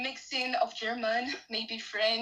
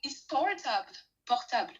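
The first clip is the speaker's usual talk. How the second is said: English accent. Real, not acted. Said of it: "why am I saying in an English accent".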